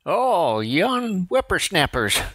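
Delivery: put-on old prospector. Voicing an old man.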